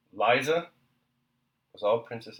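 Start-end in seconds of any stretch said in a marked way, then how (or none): 0.1-0.7 one louder warning word; husband warning his wife, louder; entreaty and threat. A narrator's reading. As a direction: plead and warn in a single name. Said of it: "that one word expressed an entreaty, a threat".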